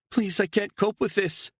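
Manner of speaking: high, begging woman's voice; pleading mother. A narrator's reading. Mother begging her captor to let her go, high and pleading. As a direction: plead for your daughter's sake.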